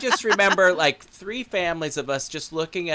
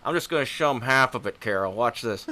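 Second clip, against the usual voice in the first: zebra voice; 4 semitones lower, faster than usual. Pretend. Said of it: "we started doing the zebra voice".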